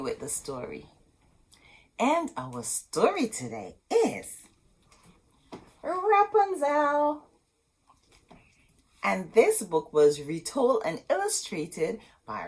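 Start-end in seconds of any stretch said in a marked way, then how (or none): 5.8-7.2 higher, slow drawn-out title; title announcement. Acted. Storyteller announcing the book title to kids. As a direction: present the title with wonder. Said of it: "announcing the title".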